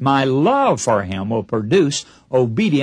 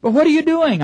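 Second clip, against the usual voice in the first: raised quoted voice; 14 semitones higher, 3 dB louder than usual. Retold or imitated. Retold exchange with man chiseling.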